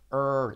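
long held "er"; "er" as one long English r; drawn-out R sound. Shown as a demonstration. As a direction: stretch "er" slowly on a curled r. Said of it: "asegúrate, fíjate".

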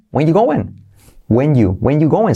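"when you going" with "are" left out; casual dropped verb. Shown as a demonstration. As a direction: skip "are", run it together. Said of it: "saltan el verbo".

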